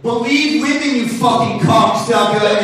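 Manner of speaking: loud, high, aggressive Boston yell; Boston hate-speech voice. Retold or imitated. Comic yelling a slogan like an angry Boston guy. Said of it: "sound like they're doing hate speech".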